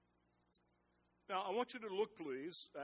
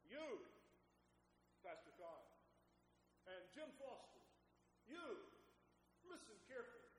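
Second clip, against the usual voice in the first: pointed address; 3 semitones higher, 13 dB quieter than usual. Acted. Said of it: "paused and said".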